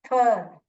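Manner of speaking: "थर" with er read as one "अर" sound; r-controlled vowel. Shown as a demonstration. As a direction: join थ and अर into "थर". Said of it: "इसको अर ही पढ़ते हैं".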